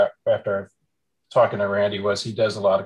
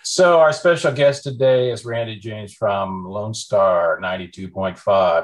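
radio voice; 3 semitones lower, 4 dB louder, slower than usual. Pretend. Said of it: "I'm gonna go into my radio voice".

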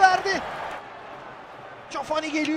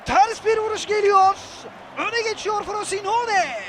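screaming football commentator. Real, not acted. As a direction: yell the goal like live TV. Goal call in match commentary.

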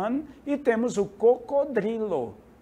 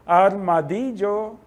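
slow demo word; 3 dB louder, slower than usual. Shown as a demonstration. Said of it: "Armadillo, o armadilho".

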